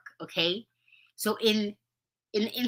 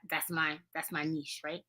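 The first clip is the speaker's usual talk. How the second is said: ordinary talk, nothing marked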